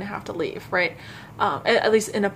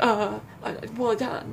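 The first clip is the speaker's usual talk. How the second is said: imitated stutter. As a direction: act out a flustered stammer. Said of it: "making me stutter".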